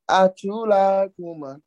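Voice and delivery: teasing friends. Retold or imitated. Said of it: "my friends think like".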